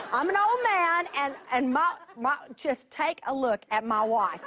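lightly voiced old man, chuckling through it; half-laughing impression of a complaining husband; mock Zechariah, laughing. Preacher retelling Zechariah's excuse, amused mock protest. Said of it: "I get what the dude's trying to say".

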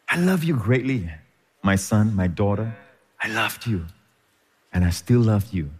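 a lightly voiced God, tender and low. God speaks love to believers.

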